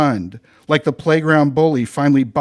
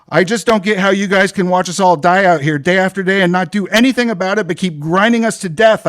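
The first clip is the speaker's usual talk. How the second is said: higher, louder ranting; continued rant; 4 semitones higher, 4 dB louder than usual. Acted. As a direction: keep railing at the supervisor. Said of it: "I continued".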